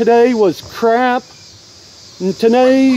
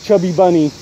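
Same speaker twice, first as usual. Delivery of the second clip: cheeks stuffed full; 5 semitones lower, much faster than usual. Real, not acted. Mouth stuffed with marshmallows.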